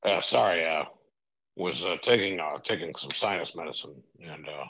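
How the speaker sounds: lightly voiced groggy tycoon on the phone; a hint of a distracted rich old boss; Vince McMahon impression. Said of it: "Vinnie Mac himself on the line".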